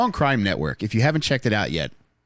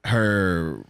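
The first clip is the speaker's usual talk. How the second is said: slow dramatic; slower than usual. Acted. Romantic build-up to the crush.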